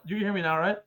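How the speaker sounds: muffled like underwater; muffled mic. Real, not acted. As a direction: sounds like underwater in a cave. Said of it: "you sound like you're, like, underwater in a cave".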